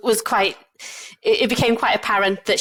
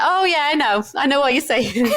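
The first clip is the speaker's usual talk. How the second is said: higher, cheerful mimicry ending in laughter; lightly voiced old lady; 6 semitones higher than usual. Old lady finally understands the translated doctor, mildly mimicked. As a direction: lightly imitate her sudden understanding.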